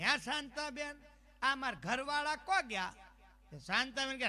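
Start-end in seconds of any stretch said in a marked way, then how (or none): 0.0-2.9 raised-pitch call to a neighbour; mock calling out. Wife asks neighbour about husband, mild mock call. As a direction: call over to next door, not truly shouting. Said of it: "બૂમ પાડી".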